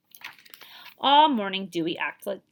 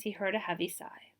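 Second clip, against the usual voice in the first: soft breathy narration; whisper; 3 semitones lower, 7 dB quieter than usual. Acted. Narrator noticing the sad girl, whispered. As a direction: drop to a hush.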